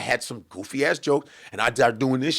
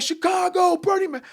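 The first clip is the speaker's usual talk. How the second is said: a light mock MC intro, high; host announcing. Host bringing the next act onstage, lightly mimicked announcer lilt. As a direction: announce the name up high like an emcee. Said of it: "It was like".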